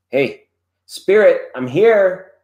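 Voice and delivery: eager greeting. Pretend. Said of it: "And you're like".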